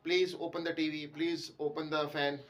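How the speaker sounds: slowly spelled-out example sentence; slow wrong-usage demo. Shown as a demonstration. Teacher slowly reading a wrong usage to students. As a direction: read it out slowly as a bad example. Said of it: "तो ये word बड़ा गलत है".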